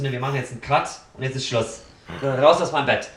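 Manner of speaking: mock throwing him out. Throwing lover out, retold.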